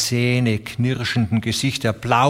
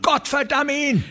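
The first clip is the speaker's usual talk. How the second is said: very high, furious curse; shrieked curse. Acted. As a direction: spit the curse out in rage. Curse at railroad boss. (hoher wütender Fluch)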